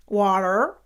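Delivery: put-on water with a posh British accent; imitating posh British water. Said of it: "the posh way and say water".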